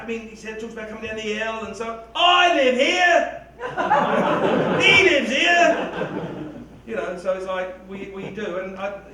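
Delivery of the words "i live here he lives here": laughing mock outrage. Mocking a heckler's objection.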